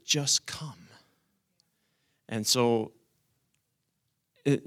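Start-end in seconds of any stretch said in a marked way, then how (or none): 0.0-0.9 whispered, gentle and unvoiced; soft whisper. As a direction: breathe it like God's gentle invitation. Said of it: "He said".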